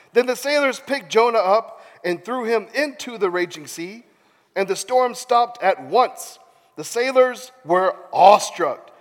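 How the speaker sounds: animated Bible storytelling; theatrical narrator; dramatic scripture reading. A narrator's reading. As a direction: narrate with weighted pauses on key words. Reads scripture aloud dramatically.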